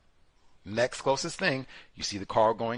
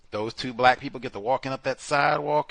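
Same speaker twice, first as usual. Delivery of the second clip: normal talking voice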